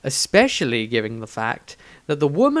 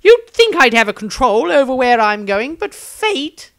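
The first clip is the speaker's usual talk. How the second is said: higher, louder voice of a tired, resigned wizard; weary wizard; 10 semitones higher, 7 dB louder than usual. Acted. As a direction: sigh through it, fed up with fate. Maestro sighs and answers.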